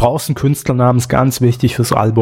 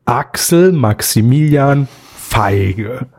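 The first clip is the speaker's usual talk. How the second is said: slow, syllable by syllable dictation; over enunciating; much slower than usual. Shown as a demonstration. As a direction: spell it out slowly for note-taking. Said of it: "Nochmal zum Mitschreiben".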